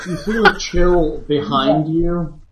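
slow, ominous scene setting; second person narrator. Acted. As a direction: narrate the chill slowly. GM narration, slowed.

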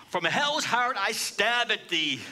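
mild mock yell. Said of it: "he yells out at Moby Dick".

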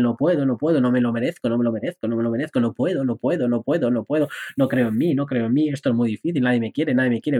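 a touch of defeated mumbling; lightly voiced self-pity; negative self-talk. Shown as a demonstration. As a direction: repeat it like a gloomy loop. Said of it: "las usas de forma negativa".

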